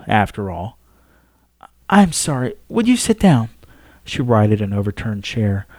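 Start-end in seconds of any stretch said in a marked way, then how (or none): 1.9-3.5 higher, gentle courteous woman; polite Pope. Acted. Pope offers her visitor a seat, courteous. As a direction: offer the chair kindly.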